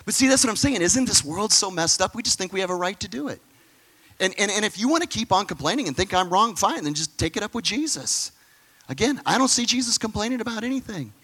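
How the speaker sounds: high, emphatic preacher fervor; impassioned preaching. Real, not acted. Preacher challenging complainers, rising fervor. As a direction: press the point hard.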